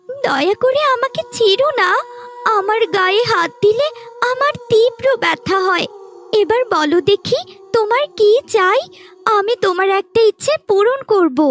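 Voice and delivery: a magic flower begging to be spared; talking flower tree. Acted.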